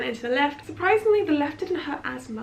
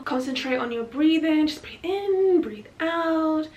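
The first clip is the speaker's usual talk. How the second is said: supportive coaching; 4 semitones higher, 4 dB louder, slower than usual. Retold or imitated. Acting the supportive staff coaching breathing.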